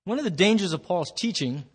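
talking around a cough drop; words through a chewed lozenge; chewing while talking. Real, not acted. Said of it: "I'm chewing on a cough drop".

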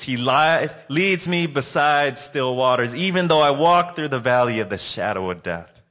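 a hint of an old woman near tears building then fading; tearful grandma. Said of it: "Tears starting to roll down her face".

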